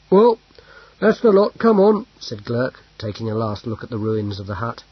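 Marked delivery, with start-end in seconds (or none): 0.1-2.1 loud, higher call to the group. Acted. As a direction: call everyone to move out. Calling others to leave.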